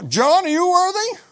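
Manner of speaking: high, loud call to John; angel calling to John. Acted. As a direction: call him out by name. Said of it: "the angel cries out".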